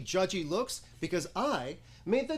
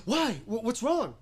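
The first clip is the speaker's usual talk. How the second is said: mock concern; 5 semitones higher than usual. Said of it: "then they say".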